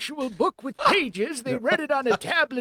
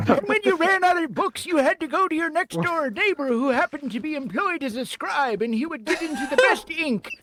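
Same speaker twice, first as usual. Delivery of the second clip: put-on old man voice. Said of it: "sounded so much like Grandpa Simpson".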